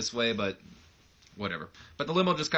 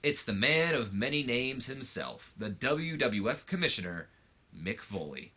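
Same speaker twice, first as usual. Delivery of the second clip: smug Shane voice; 3 semitones higher than usual. Retold or imitated. Shane gloating at Mick Foley in his office, smug and mocking. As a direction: gloat like the smug villain who has just walked in. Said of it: "He goes".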